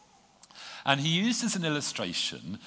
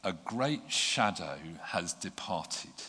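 calm Gandalf; 3 semitones lower, slower than usual. Acted. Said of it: "said Gandalf".

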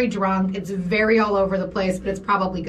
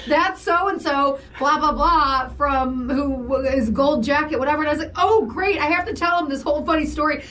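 mock imitation; 6 semitones higher than usual. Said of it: "I think you said".

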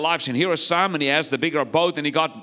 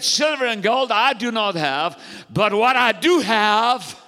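higher-pitched preaching proclamation; emphatic declamation; 4 semitones higher than usual. Acted. Preacher quotes Peter to the lame man, emphatic proclamation. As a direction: build on the quote, stretching the last words.

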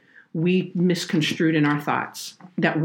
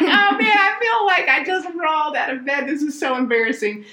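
laughing embarrassment; 12 semitones higher than usual. Retold or imitated. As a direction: squeal it out, mock mortified at herself. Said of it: "I was like".

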